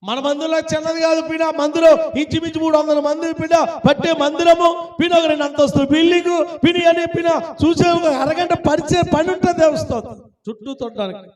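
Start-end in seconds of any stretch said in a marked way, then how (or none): 0.0-10.2 fast, energetic sermon delivery; rapid preaching. Real, not acted. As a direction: rattle it off with a preacher's drive. Preaches about their large church. (వేగంగా, జోరుగా ప్రసంగం)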